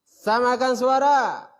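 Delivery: short call then rising high and loud. Shown as a demonstration. Teacher showing short then high pitch, rising call. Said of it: "Pendek dulu, baru atas".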